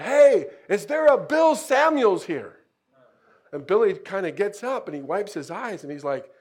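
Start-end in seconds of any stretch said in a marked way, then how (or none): 0.0-2.6 loud high shout across the street; retold yell, calling a name. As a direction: call out from a motorcycle. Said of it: "yells out".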